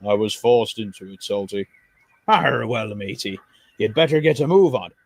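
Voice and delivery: lightly voiced jolly sailor; old sea dog. Salty greets Gordon at the docks like a jolly sailor. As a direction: hail him like a salty old pirate.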